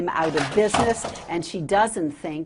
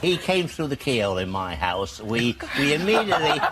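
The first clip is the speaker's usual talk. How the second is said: anchor stifling giggles. Real, not acted. Anchor giggles through story.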